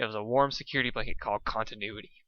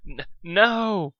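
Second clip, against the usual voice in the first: loud refusal; 8 semitones higher, 5 dB louder than usual. A narrator's reading. Dusk resists the filly.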